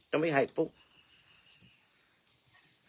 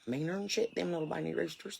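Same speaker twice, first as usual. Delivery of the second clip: imitating old Hazel Hicks; 10 dB quieter than usual. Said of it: "I can hear her right now".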